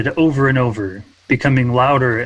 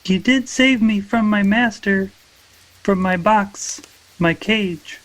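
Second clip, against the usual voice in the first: character voice; 9 semitones higher than usual. Acted. Moonlight voiced in dialogue.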